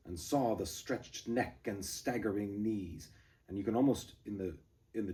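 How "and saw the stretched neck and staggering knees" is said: slow, broken offbeat reading; stumbling rhythm. Shown as a demonstration. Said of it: "throws in these offbeats".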